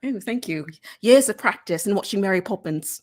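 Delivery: modest, playful British reply; lightly mannered British voice; put-on British accent. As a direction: accept praise in a British accent. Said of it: "you do such a good British accent".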